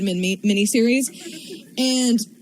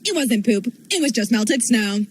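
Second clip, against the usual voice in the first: happy, laughing retelling. Retold or imitated. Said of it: "happy as a clam".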